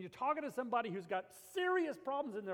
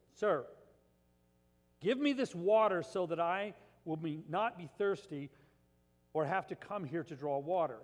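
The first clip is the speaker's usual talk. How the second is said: dripping with sarcasm, a bit louder; sarcastic; 3 semitones lower, 5 dB louder than usual. Retold or imitated. Woman at the well, sarcastic to Jesus. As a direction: play the woman mocking Jesus' offer, sarcastic. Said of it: "drips with sarcasm".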